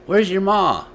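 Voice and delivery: lightly voiced father, anxious; worried father. A narrator's reading. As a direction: ask where mom is. Father asks about wife.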